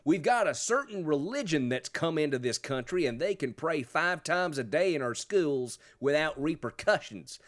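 lightly exaggerated Southern politician's accent; mock Southern accent. Host mockingly quotes a radio interview, in a Southern accent. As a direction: quote him in a dim-witted Southern accent. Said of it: "I am using the Southern accent".

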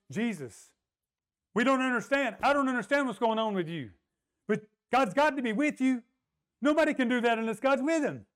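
a puzzled seeker pressing Jesus; earnest Nicodemus. Acted.

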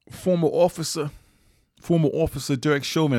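lightly imitated New York accent. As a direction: put on a hint of a New York detective's accent. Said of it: "he would say in his New York accent".

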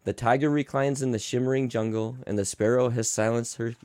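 lightly soothing storybook read; tender bedtime read with angry asides; bedtime story reading. Acted. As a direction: read it like a lullaby book. Reads bedtime story parody.

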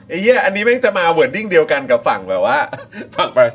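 laughing. Real, not acted. Laughing at irony.

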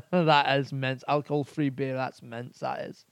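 mock-Scottish verdict after a laugh; imitated Scottish accent. Podcaster imitating Scots on alcohol-free beer, Scottish accent.

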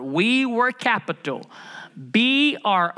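slow, deliberate spelling out with a pause before B R; drawn-out "capital", then separate letters B, R. Shown as a demonstration. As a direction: spell it out slowly for emphasis. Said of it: "Let me say it slower".

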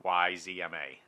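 very slow letter spelling. Shown as a demonstration. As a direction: spell each letter slowly. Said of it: "for all of the world to hear".

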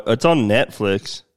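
slow, drawn-out words; drawn-out delivery. Real, not acted. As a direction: stretch the line out slowly. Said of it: "Why'd you say it like that?".

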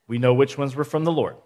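a touch of snark; snarky. Real, not acted. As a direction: make it a slightly snarky aside. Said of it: "I said that kind of snarky".

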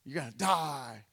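low, growled guard threat, dropped well below his own pitch; a guard sneering at doomed prisoners; menacing guard. Retold or imitated. Guard threatens the three Hebrews, in a low menacing growl.

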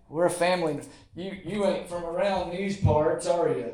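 slow Southern backwoods accent, a bit hammed; mock Southern drawl. Preacher mocks a closed Southern family greeting newcomers, in a slow drawl. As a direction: drawl it like a suspicious Southern local. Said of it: "the accent".

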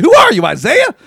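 high, loud jab; mock retort. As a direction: shout the joke back. Mocking retort.

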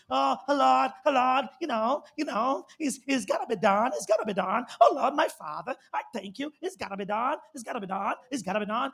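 lightly put-on polished English accent; mock accented prayer. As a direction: pray showing off a good accent, mockingly. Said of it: "I know your accent is good".

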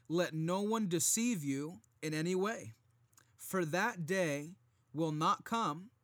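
firm, measured Bible reading; scripture reading. Acted. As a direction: read the verses with preacher weight. Reads scripture aloud.

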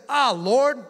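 high, loud exasperated groan to God; hammed-up exasperated plea; Jonah. Prophet praying to the Lord, mock exasperation. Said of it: "That's exactly what Jonah sounded like".

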